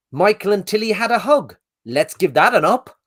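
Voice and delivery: imitating the reviewer. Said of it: "And he's like".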